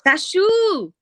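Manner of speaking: "Sashu" high, ending in a long "oo"; added "oo" ending. Retold or imitated. Correcting the friend's nickname, high drawn-out "Sashu". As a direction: sing out the "oo" in "Sashu". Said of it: "they'll add an "oo" on to the end".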